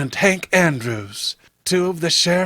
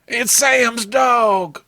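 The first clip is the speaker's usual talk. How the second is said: shocked discovery; 6 semitones higher, much slower than usual. Acted. A searcher finds the dead dog, alarmed. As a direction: drag out the shock as you spot it.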